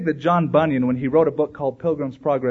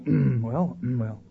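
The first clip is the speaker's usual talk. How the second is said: hemming and hawing, lower; suddenly uneasy; 4 semitones lower, 4 dB quieter, slower than usual. Acted. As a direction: imitate people clamming up awkwardly. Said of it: "they'll get real, real different all of a sudden".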